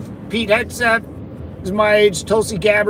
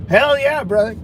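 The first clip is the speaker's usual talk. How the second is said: hyped cheer; 5 semitones higher than usual. Real, not acted. Cheering viewer's joke.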